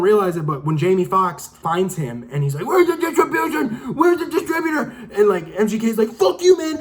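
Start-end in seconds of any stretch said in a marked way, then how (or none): 2.7-4.8 much higher shouted demand, retelling the scene; imitating an interrogation. Retelling Jamie Foxx grilling the villain, high mock shout. 6.1-6.8 much higher, louder imitated yell; mock yell. Villain defying Jamie Foxx, imitated as a high, loud yell. The rapper's character yelling back.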